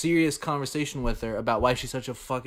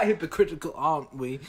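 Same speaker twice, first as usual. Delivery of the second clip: laughing; faster than usual. Retold or imitated. Repeating the clip line.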